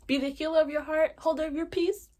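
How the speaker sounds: high, loud, hyped-up quote; excited repeat. Real, not acted. Host showing off favorite quote, high and excited.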